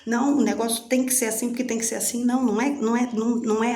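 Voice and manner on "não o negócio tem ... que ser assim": hurried mock denial, a bit higher. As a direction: rush to deny it, higher.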